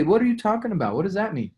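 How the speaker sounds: aunt asked about her good credit, mock bewildered; puzzled aunt. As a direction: play the confused aunt hearing jargon. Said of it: "She's gonna say".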